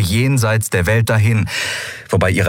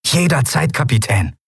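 high, eager start; excited; 7 semitones higher than usual. A narrator's reading. Miko replies to his captain, excited. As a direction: answer the captain, thrilled. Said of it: "ganz elektrisiert vor Aufregung".

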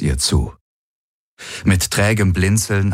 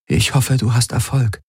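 worried Ylana; 6 semitones higher than usual. Acted. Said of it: "Ylana nickte besorgt".

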